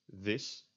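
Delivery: "this" said as Dutch vis with a buzzed V; voiced Dutch V. Shown as a demonstration. Teacher showing the word for fish, voiced V. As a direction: start "this" on a deliberate V. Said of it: "try to make it a V".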